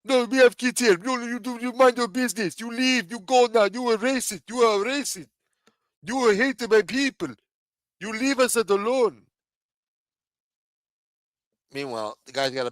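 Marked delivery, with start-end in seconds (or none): 0.0-9.2 high-pitched imitation of angry defensiveness; mock hostile. Imitated local rebuffing questions about the daycare, mock hostile. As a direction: send the questioner away in a hammed-up high voice. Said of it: "then get hostile with you".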